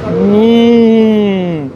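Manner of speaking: talking while chewing food; muffled mouth full hum. Real, not acted. Seen 0: Bite taken at -2, jaw working with closed mouth through 4.2.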